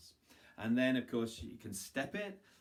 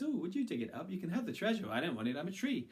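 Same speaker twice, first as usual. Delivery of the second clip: tree voice; 7 semitones higher, faster than usual. Acted. Tree pleads.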